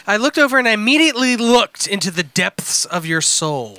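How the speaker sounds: deliberate storytelling delivery, rising then dropping away; dramatic letter reading. Acted. Reading a crude missed-connection letter to co-hosts, mock-dramatic. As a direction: read it out with mock-serious drama.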